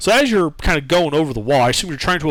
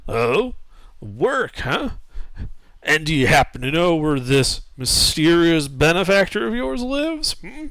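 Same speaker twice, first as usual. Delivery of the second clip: put-on older halfling voice; 2 semitones higher than usual.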